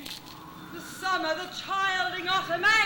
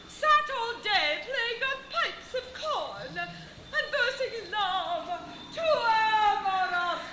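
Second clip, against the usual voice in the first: hammy stage actor; 4 semitones higher than usual. Acted. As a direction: overblown theatrical Titania. Hammy Titania speech.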